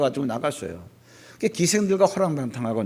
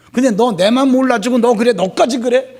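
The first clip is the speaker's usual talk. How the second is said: louder, higher mock rant of a wounded father; angry father; 8 semitones higher, 9 dB louder than usual. Imagined father snapping back at his eldest son, loud and angry. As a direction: vent it like a hurt dad losing patience. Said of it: "뭐 이렇게 얘기할 수도 있잖아요".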